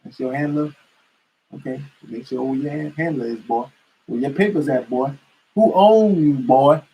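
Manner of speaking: condescending mock interrogation; mocking a white cop. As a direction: talk down to him, calling him boy. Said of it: "they'll be like".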